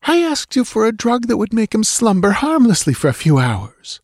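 high-pitched bitter female voice. A narrator's reading. Dancer blames the priest for the wrong drug, bitter. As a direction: accuse with wounded indignation. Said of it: "she said bitterly".

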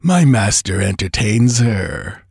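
slow, amused gloat; laughing. Acted. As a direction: say it with a smug chuckle. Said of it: "laughed Baal Peor".

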